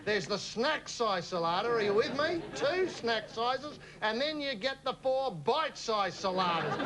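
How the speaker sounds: normal talking voice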